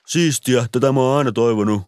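sarcastic thanks. A narrator's reading. Ilari pretending to love the metal Christmas CD, sarcastic. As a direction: fake enthusiasm, clearly ironic.

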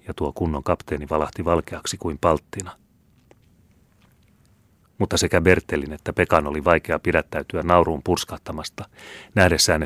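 usual speaking voice

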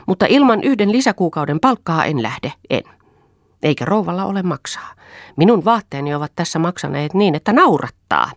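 furious at being sent away; angry maid. A narrator's reading. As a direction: Hilja angrily demands an extra month's pay. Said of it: "hän sanoi vihaisesti".

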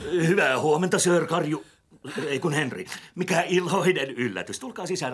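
high, loud gushing welcome to the boss; fake cheerful greeting. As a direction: overdo the delight, all smiles. Greets boss he just insulted.

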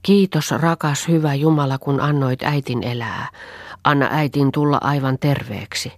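put-on a small girl's simple, trusting prayer; a child's prayer. Kneeling Anni prays to God for her mother, an earnest child. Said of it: "lankesi polvilleen ja rukoili".

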